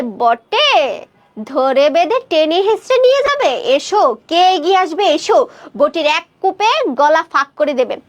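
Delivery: mildly acted menace, teeth clenched; defiant challenge with a touch of grit; through clenched teeth. Aunt daring Kanai's men to come closer, mildly menacing. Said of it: "দাঁতে দাঁত কামড়ে বলে".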